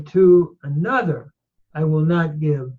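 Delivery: To another stressed in front, then I will not give; literal word order. Shown as a demonstration. Teacher showing literal Hebrew order, stressed. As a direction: put To another first and punch it. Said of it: "or literally".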